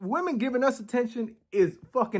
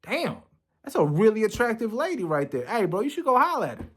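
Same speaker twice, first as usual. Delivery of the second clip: hyped homeboy voice; 5 semitones higher than usual. Retold or imitated. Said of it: "they'll be like".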